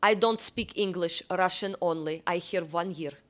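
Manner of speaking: a hint of a thick Russian accent to scare off strangers; fake Russian accent. Brushing off a street stranger in mock Russian accent. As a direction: put on a mild Russian accent, deadpan serious. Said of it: "use strong Russian accent".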